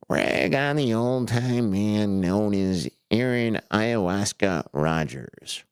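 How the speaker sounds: lightly voiced old man, slow; a hint of a creaky old man. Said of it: "doing the old man voice".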